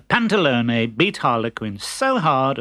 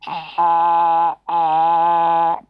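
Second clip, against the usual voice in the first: puffed-up doctor, hamming it up; examine like a self-important quack; pompous fake doctor; 4 semitones higher, much slower than usual.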